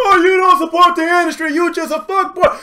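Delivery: high sneering mock voice; a hint of a whiny critic; mocking commenter. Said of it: "telling me".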